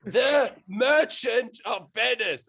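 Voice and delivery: slow, loud, spelled-out yell of the title; drawn-out mock shout. Shakespeare yells the play title at illiterate drunkards, slow mock shout. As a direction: bellow it slowly so they finally get it.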